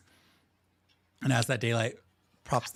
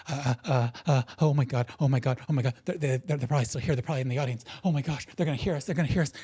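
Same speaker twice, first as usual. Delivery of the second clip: stammering, repeating, breathless fretting; acted jittery stage fright; nervous panic; 3 semitones higher, much faster than usual. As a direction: fret that you will be caught. Second actor panicking about being heard.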